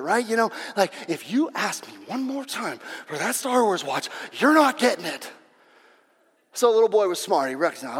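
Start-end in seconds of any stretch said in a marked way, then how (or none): 1.1-5.3 acted exasperated father's warning; fed-up dad. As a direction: lay down the law like a weary dad. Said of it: "his dad finally got sick of it".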